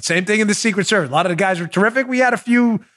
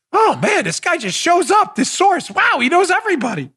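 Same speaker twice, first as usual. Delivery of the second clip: mock wonder; 7 semitones higher than usual. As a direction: cheer it like a dazzled fan, sarcastically. Mocking the FBI's lucky find.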